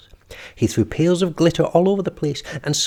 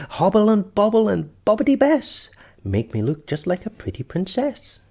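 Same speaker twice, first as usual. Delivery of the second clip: sing-song gleeful chant, higher; gleeful spell; 7 semitones higher, 3 dB louder than usual. A narrator's reading. The witch casts her princess spell, gleeful chant. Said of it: "uttered a spell in a voice full of glee".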